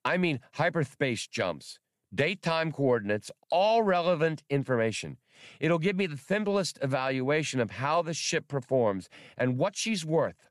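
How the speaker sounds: high, fussy squeaking creature; squeaky voice. Acted. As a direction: squeak it out like a fretful rodent. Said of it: "Spray squeaked".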